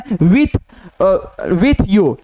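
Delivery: drawn out, word by word; slow dictation. Shown as a demonstration. Teacher dictates the phrase slowly to the class. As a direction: read it out slowly for students to write. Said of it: "teacher dictating a shorthand phrase".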